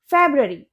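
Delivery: फेब्रुअरी as "FEB-ruh-ree", no "oo"; correct pronunciation. Shown as a demonstration. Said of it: "आप भी बोलकर देखिए". (फेब्रुअरी को "फेब-ररी" बोलें)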